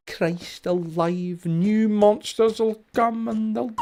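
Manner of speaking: high, slow panicked cry; startled alarm rising high. Real, not acted. Panic as monsters spawn.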